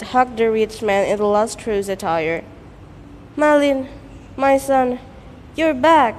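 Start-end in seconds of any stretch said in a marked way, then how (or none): 3.4-6.1 tearful joy. Acted. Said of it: "broke her tears happily and relieved".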